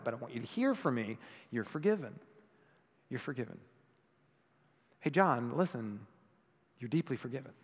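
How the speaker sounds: soft, tender reassurance; tender Jesus. Retold or imitated. Jesus telling John he is forgiven, tender and hushed. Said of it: "you hear the tangible voice of Jesus saying".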